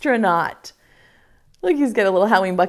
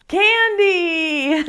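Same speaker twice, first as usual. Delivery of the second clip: high laughing cry; excited cheer; 9 semitones higher than usual. Real, not acted. Teacher revealing the best part to kids, high laughing cry. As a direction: blurt it out with delight.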